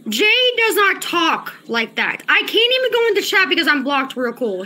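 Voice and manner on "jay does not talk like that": slow stress on "does not talk", pause before "like that"; emphatic insistence. Real, not acted. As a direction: stretch "talk", then drop "like that". Insisting again to the chat.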